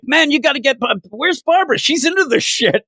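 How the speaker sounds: high-pitched, lightly mocking imitation; half making fun. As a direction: call out for someone, half joking. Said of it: "kinda like half making fun".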